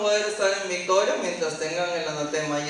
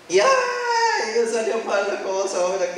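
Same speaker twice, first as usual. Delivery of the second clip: quejándose entre lágrimas; tearful lament; 3 semitones higher than usual. Acted. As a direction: dilo casi llorando. El hermano llorando tras la derrota. (el hermano se lamenta tras perder, con llanto)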